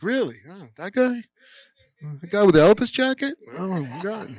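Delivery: high, excited mock disbelief; delighted surprise. Jacques Demy realising who the punk kid is, high thrilled surprise. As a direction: squeal it, thrilled to recognise him. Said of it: "he's like".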